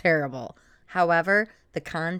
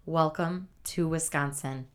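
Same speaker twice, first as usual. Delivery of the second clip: poetic reading; 3 semitones lower than usual. Acted. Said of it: "That was a good haiku".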